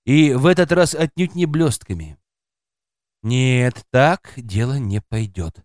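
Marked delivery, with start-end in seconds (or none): none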